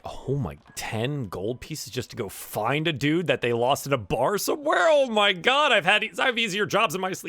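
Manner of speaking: mock astonishment, rushing at the end; incredulous delight. Malia marvels at easy gold, giddy disbelief. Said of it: "Malia's like".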